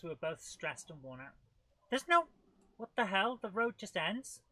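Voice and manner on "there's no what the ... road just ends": much higher and louder, startled; shocked the road stops; surprised. Real, not acted. Gamer startled that the in-game road just ends.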